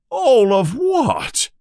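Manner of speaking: high, slow roaring giant; yell. Acted. Hagrid yelling at the Dursleys, high and slow. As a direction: bellow it in disbelief. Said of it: "Hagrid yells".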